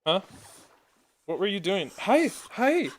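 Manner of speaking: high-pitched greeting to a pet; cooing to dog. Real, not acted. Streamer spots the dog upstairs and greets it, high cooing.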